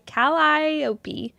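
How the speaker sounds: Calliope sounded out as kal-EYE-oh-pee; practising pronunciation. Shown as a demonstration. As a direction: work through Calliope with a long EYE. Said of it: "that's hard to say".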